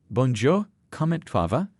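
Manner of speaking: put-on a kid's clumsy English-accented French, a bit loud and high; little brother mangling French with a heavy English accent; terrible English accent in French. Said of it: "attempted with a terrible accent".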